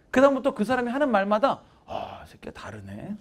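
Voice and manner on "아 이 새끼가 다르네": slow, hushed, impressed aside; awed murmur. Retold or imitated. Girl secretly impressed by a med student, hushed awe. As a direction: muse it slowly as if newly impressed.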